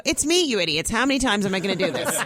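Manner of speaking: retold exasperated reproach; mock exasperation. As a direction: scold the gullible managers, lightly hammed up. Exasperated at fooled managers, retold.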